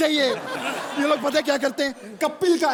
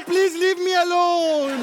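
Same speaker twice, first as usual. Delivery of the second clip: mock fed-up plea; 3 semitones higher, much slower than usual. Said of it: "अब कहती है".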